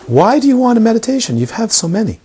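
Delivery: lifted, insistent challenge. Retold or imitated. Teacher pressing the student.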